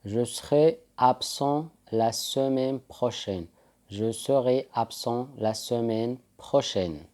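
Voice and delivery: slow, careful French sentence; teacher modelling a sentence slowly; slow model sentence. Shown as a demonstration. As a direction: say it slowly for repetition. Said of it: "سأتغيب الأسبوع القادم".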